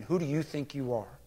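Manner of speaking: low, restrained rebuke; hint at anger without raising the voice; almost angry. Retold or imitated. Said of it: "in an almost angry tone".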